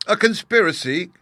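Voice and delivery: high, loud delighted cry. A narrator's reading. Wife thrilled by her husband's plot, delighted cry. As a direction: squeal it with delight. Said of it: "cried the delighted lady".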